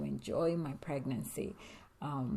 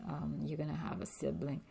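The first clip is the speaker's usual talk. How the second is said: faster, hushed retelling of the news; quicker retake; 5 dB quieter, faster than usual. Shown as a demonstration. Telling her daughter, a quicker hushed retake. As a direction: rush the line out softly. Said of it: "I'm like".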